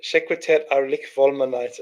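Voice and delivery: low puzzled mumble over the odd words; quiet reread. Real, not acted. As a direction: murmur it again to yourself, puzzled. Rereads gibberish under breath.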